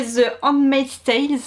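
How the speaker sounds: English title in a French accent; "Tales" in a French-accented English. Real, not acted. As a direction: read "The Handmaid's Tales" with a French accent, plural s. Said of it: "mon magnifique accent anglais".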